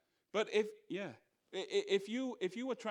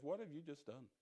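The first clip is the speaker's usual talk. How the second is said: devil's taunt; 3 semitones lower, 8 dB quieter than usual. Retold or imitated. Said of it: "the devil says".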